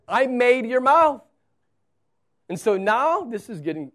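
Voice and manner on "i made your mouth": loud, higher firm reply; God rebuking. Acted. God answering Moses' excuse, loud and firm. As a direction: cut the excuse off with force. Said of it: "And God says".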